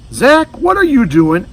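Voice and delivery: high, loud call; mother calling from the kitchen; loud high questioning call. Acted. Mother calls out.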